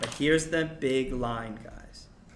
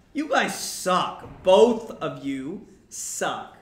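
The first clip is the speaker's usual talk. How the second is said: fed-up curse; 3 semitones higher, 6 dB louder, much slower than usual. Retold or imitated. Mercutio cursing both houses.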